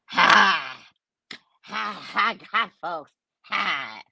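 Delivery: lightly voiced Southern hillbilly woman's laugh; hint of a cackling hillbilly woman; mock hillbilly woman. Mocking hillbilly women for the chat, a light Southern cackle. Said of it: "they always talk like this".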